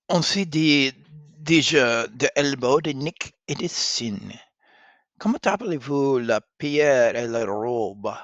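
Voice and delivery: loud proud princess; proud insistence. Acted. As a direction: insist she knows it.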